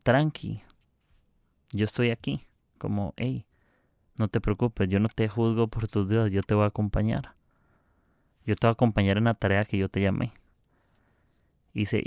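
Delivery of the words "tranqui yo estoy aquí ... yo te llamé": reassuring God. Retold or imitated. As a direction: gently tell him not to worry. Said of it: "como que le está diciendo a Moisés". (voz tranquilizadora y suave)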